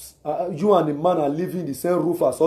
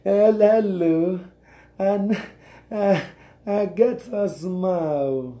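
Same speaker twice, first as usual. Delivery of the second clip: single woman on phone. Retold or imitated. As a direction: stretch out the hello like a coy single woman. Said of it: "talking to a man as which you are not married".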